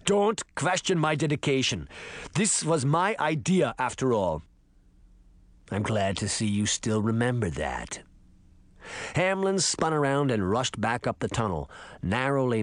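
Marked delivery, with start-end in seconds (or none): 0.1-4.4 mildly angry principal; a touch of indignant anger; angry, shaking. Acted. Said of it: "Hamlin's voice was so angry it was shaking". 5.7-8.0 low voice, a hint of ancient creak; lightly voiced creaky old man. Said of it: "a creaky voice said".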